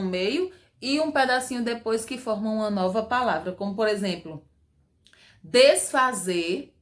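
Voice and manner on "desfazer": desfazer drawn out syllable by syllable, des-fa-zer; slowly split word. Shown as a demonstration. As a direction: stretch desfazer slowly into its parts. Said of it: "aí vem des e e". (desfazer bem devagar, sílaba por sílaba)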